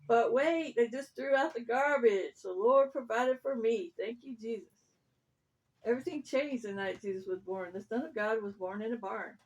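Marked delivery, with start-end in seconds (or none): 0.1-4.7 louder, delighted dog; mildly excited, grateful dog. Acted. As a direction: perk up loudly at a lucky find. Dog suddenly finds food.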